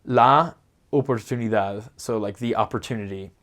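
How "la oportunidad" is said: "la oportunidad" with every vowel kept pure and separate; careful Spanish demo; Spanish pronunciation. Shown as a demonstration. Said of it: "you would have a word like".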